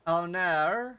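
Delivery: loud, exaggerated Aussie "oh naur"; Australian accent. Streamer teasing chat, mock Australian accent. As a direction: put on a broad Australian accent. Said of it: "Sounded more Australian?".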